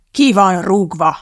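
slow, forceful dismissal; heated, drawn-out outburst; spluttering with anger. A narrator's reading. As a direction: fire them in a temper. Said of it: "fröcsögte Phil indulatosan".

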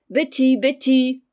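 slow, high, loud sour call; voix aigre. A narrator's reading. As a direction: summon the servant sharply, drawing the name out. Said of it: "cria la voix aigre". (appel aigre et criard, traînant)

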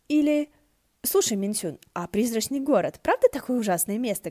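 eager chatter. Acted. Ши Цинсюань chatters excitedly.

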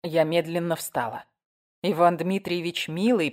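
ordinary delivery

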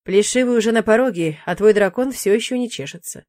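breezy demon shrugging it off; lightly voiced demon. Demon brushing off the witch's fear, lightly voiced.

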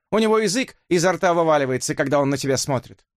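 mock him lightly; crude tease. (грубоватая насмешка)

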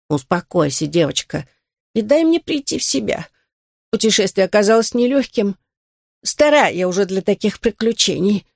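put-on out of breath old turtle; puffing. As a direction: puff and pant through it. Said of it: "отдуваясь".

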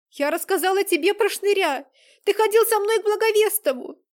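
high, loud furious cry; desperate accusation. Acted. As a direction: hurl the betrayal at him. Girl accuses Vlad in panic.

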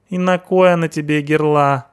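hoog, rauw punkersstemmetje, spottend; punk sidekick voice. Acted. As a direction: speel de brutale punker, veel hoger.

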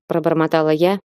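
plain reading voice

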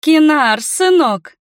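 high, loud gushing welcome; ringing greeting. A narrator's reading. Mother greeting her birthday son loudly, high gushing welcome. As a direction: sweep in with showy delight.

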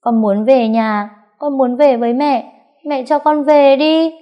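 put-on high, loud tearful pleading child; begging. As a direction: beg desperately to go home. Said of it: "van xin". (bé van xin trong tiếng khóc)

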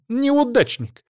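high, loud furious yell; shouting. Acted. Ada screams at her ex, high and loud.

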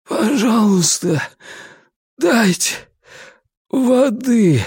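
high, slow faltering plea; broken voice. Acted. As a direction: ask with a voice that breaks. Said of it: "надломленным голосом попросил он".

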